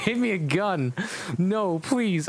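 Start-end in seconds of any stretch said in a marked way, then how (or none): 1.4-2.3 mock plea, pitched higher, breaking into a laugh; can't keep a straight face while begging; begging through laughter. Reading the heroine pleading with Voldemort, laughing. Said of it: "I begged".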